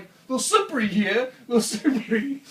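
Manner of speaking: calling out a warning. Retold or imitated. Warning John about slick rocks, called out loud. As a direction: warn him the rocks are slick. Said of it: "it's like".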